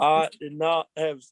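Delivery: slow, lightly voiced presidential denial; Bill Clinton. Guest echoes host's impression, slow lightly voiced denial. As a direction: draw the words out as a president. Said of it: "Bill Clinton".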